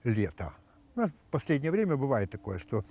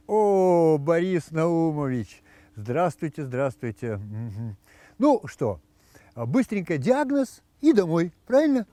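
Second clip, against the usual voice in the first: doctor voice; 3 semitones higher, 4 dB louder, slower than usual. Acted. Brisk doctor voiced in joke.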